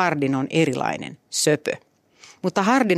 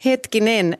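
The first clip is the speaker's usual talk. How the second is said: laughing; 6 semitones higher than usual. Real, not acted. Laughing reaction to the reading.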